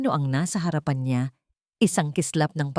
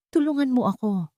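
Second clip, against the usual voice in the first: put-on pleading old woman; 8 semitones higher than usual. A narrator's reading. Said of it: "pakiusap ng matanda".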